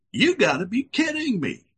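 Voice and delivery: a lightly voiced wife who won't buy it; scoffing wife. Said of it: "She said".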